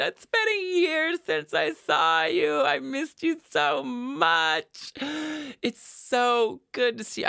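put-on high, slow, lisping college girl voice; college girl impression. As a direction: raise the pitch, lisp a little, gush. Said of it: "every single impression that I do, it's just that voice".

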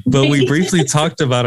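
chuckling through the words; talking while laughing. Real, not acted. Host laughing mid-sentence.

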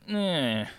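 short put-on noise of a glancing hit; acted grunt of annoyance. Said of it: "he kinda goes like".

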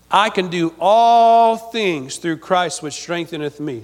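each word laid out slowly for the congregation; slow solemn scripture reading, read for the church to repeat; slow recited verse. Shown as a demonstration. Preacher recites the verse slowly for the church to repeat back. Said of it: "Say that with me".

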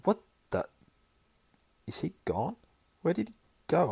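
spy realising his target has gone, alarmed; startled panic. Acted. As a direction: yelp as if he vanished from view. Watcher loses sight of subject.

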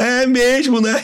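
mock phlegmatic shrug; lazy mock agreement. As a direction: agree without any intention to act. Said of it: "Ele fala".

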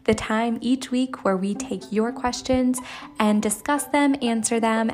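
announcer voice. Acted. Announces the podcast segment.

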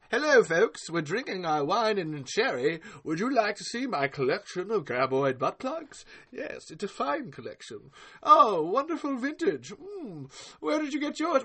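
lightly put-on hammed-up aristocratic host showing off; snooty collector. Acting snooty collectors at wine party.

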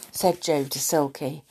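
plain reading voice

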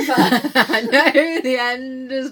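slow, theatrical doom voice; dramatic dying mother. Acted. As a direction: ham up a dying woman's prophecy.

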